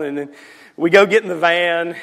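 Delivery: ordinary delivery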